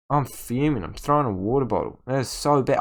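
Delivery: normal talking voice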